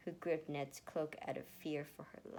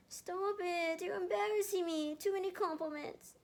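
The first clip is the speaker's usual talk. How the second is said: higher, whiny embarrassed protest; whined; 13 semitones higher, 4 dB louder than usual. A narrator's reading. Erica, embarrassed by compliments, whining a lightly voiced higher protest. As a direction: whine like she's flustered by praise. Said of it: "she whined".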